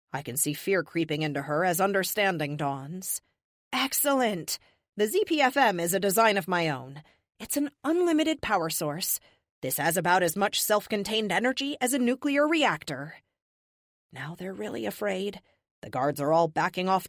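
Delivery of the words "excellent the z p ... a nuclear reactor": higher-pitched, showy explaining to captors; defiant captive. Acted. Captive to the whole room, defiant reveal of her failsafe. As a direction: hold the room like a cocky prisoner.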